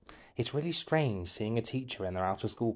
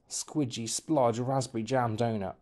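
hushed greedy whisper. Acted. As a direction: breathe it like a craving. Craving donut.

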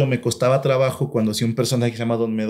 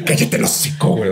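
whispering; 2 semitones lower than usual. Retold or imitated. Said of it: "es cierta cara como".

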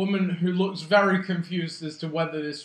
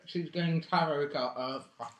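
talking while chewing; mouth full; 4 dB quieter than usual. Real, not acted. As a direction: speak through a mouthful of food. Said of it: "I can't talk while eating".

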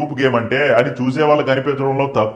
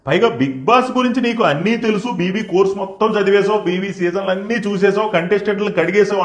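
mock accusing rant; 4 semitones higher than usual. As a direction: imitate someone yelling accusations, without real volume. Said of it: "అరుపులతో హడలెత్తించాలని చూసింది". (అరుపులను అనుకరిస్తూ పై స్థాయిలో నిలదీత)

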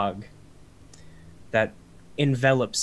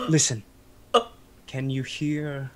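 dramatic vampire hush; 2 semitones higher than usual. Acted.

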